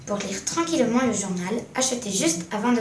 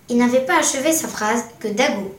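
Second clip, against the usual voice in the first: usual speaking voice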